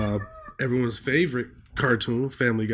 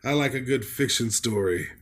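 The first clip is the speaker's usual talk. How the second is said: lightly voiced pompous old man; put-on elderly reviewer voice. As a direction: play an appalled elderly book critic. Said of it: "Is this guy like a eighty-year-old".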